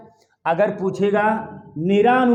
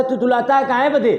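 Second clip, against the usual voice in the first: put-on child's lisp; 3 semitones higher than usual. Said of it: "अपना उच्चारण किसी word को सुव्यवस्थित तरीके से नहीं कर पाता".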